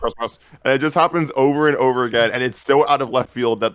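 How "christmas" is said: a hint of robotic old man. Repeating the bridge's interjection, old man robot. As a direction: lightly imitate an elderly robot. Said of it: "old man robot voice that comes in".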